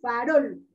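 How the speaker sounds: "farol" with the second syllable brought out, fa-ROL; stress on ROL. Shown as a demonstration. Teacher repeats for children, "farol" stressed on the last syllable. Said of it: "tiene mayor fuerza de voz".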